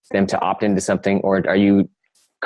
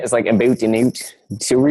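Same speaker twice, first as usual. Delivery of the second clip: put-on Canadian accent. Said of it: "it's the Canadian accent".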